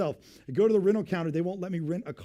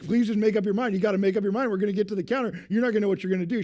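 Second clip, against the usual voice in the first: louder, pleading impatience; exasperated plea; 4 semitones higher, 6 dB louder, faster than usual. Retold or imitated. The couple in line pleading with the lady, exasperated. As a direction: beg her to just decide already.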